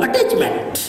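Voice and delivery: whispered punchline word. Shown as a demonstration.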